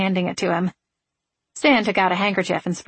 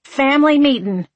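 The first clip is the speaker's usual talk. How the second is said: higher, louder sudden call; yelling; 7 semitones higher, 5 dB louder than usual. A narrator's reading. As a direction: shout it up the stairs. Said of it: "she yelled".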